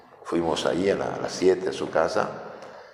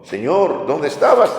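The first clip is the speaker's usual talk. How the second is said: pleading saint; 8 semitones higher, 5 dB louder than usual. Retold or imitated. Saint questions the Lord in story.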